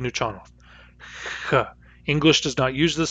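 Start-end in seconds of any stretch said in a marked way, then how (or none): 1.5-1.7 H as a rasping hiss at the K place; velar fricative demo. Shown as a demonstration. Teacher showing the velar X sound to students, rasped. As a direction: scrape the H at the back of the mouth. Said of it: "H, which we write with an X".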